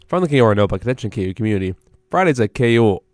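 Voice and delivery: brisk, even station notice; radio announcement read. Real, not acted. Radio host to the campus community, announcement read.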